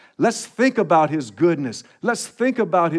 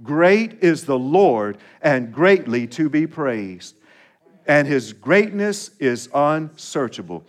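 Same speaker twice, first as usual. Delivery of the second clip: scripture reading; 3 dB louder than usual. Shown as a demonstration. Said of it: "Will you read it with me?".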